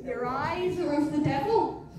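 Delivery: slow, ominous mock accusation; old lady. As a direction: imitate an old lady pronouncing judgement. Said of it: "she went".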